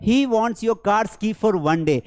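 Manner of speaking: he wants money said very slowly, word by word; slow dictation. Shown as a demonstration. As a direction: spell it out slowly for the class. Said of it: "उसे एक दिन के लिए". (धीरे-धीरे बोलकर सिखाना)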